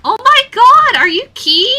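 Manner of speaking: very high, loud excited gasp; high, breathless fan excitement; starstruck fan. Retold or imitated. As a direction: squeal on recognizing a creator. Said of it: "they were like".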